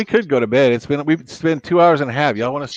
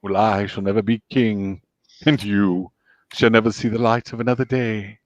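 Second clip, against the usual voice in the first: Scar impression; 4 semitones lower than usual. Scar taunting his prey, low and sly. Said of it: "how about Scar from Lion King?".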